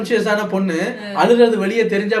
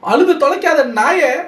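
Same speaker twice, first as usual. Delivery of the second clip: self-scolding; 6 semitones higher, slower than usual. Retold or imitated. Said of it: "அதான் ரம்யா சொல்லுது".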